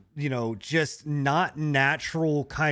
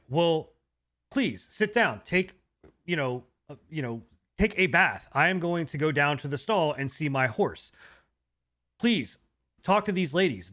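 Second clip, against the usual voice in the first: mock stilted game dialogue with choppy pauses; imitating a wooden samurai NPC; lightly voiced awkward dubbed host; stilted voice acting. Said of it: "you should have voice acted that game. That was pretty spot on".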